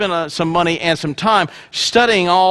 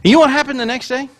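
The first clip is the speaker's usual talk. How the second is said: teasing setup; 6 semitones higher, faster than usual. Acted. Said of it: "No, that's not what happened".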